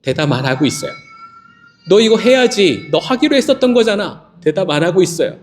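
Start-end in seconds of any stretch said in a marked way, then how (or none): 1.9-4.3 higher, pressing reminder; mock insistent urging. Pastor voicing someone pressing a silent person to do it, higher and insistent. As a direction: nudge them firmly, a touch higher.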